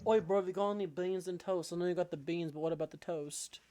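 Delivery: joking put-on British accent; mock British accent. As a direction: riff like a caricature Brit. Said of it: "No, or British accent".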